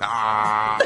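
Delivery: mock moan. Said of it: "You're like".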